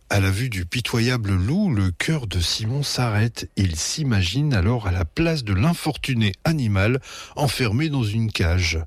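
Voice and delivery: ordinary delivery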